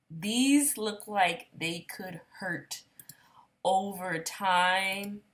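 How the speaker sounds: slow, hushed whisper. Real, not acted. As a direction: whisper it as a warning. Whispered aside.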